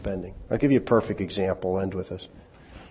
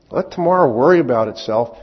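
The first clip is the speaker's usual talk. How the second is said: tongue-in-cheek; 2 semitones higher, 6 dB louder than usual. Shown as a demonstration. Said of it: "It's tongue-in-cheek humor".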